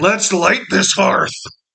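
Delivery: gravelly roaring yell. Voicing a character who yells out in Giant during the game: gravelly yell. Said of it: "just kind of in a gravelly voice uh, yell out".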